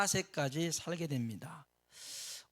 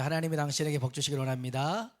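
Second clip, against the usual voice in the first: louder blessing; 7 dB louder, faster than usual. Shown as a demonstration. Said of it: "한 번 더".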